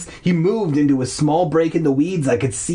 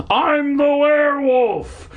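high, drawn-out manic shriek; crazed shriek; 12 semitones higher, slower than usual. Acted. Hermit chasing the kids, high manic shriek. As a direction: shriek it like a madman.

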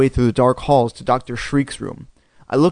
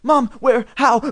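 disoriented; 10 semitones higher, 3 dB louder than usual. Acted. Disoriented boy waking.

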